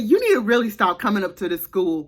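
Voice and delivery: loud and fast, telling her off; angry confrontation. Retold or imitated. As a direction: snap at the grandmother to stop coming to school. Confronting the grandmother at Walmart.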